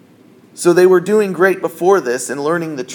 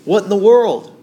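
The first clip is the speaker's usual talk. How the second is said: panicked disciples; 4 semitones higher than usual. Retold or imitated. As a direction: voice the disciples' alarm in the storm. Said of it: "they panic".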